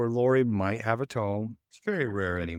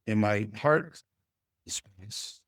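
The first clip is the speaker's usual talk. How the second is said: calm curious demo. Retold or imitated. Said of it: "And then I'll say".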